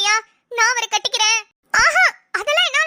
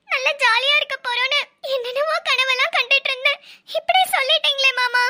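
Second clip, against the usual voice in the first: hurt whine, slightly raised pitch; acted tearful pleading; tearful complaint; 2 semitones higher than usual. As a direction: plead as if about to cry over a broken dream. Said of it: "அழுவாத, அழுவாத".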